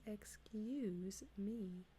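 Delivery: slow, drawn-out annoyed "Excuse me". Retold or imitated. Stranger annoyed that he blocks the way, slow drawn-out "Excuse me". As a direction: stretch it out like a put-upon stranger. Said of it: "in an annoyed tone of voice".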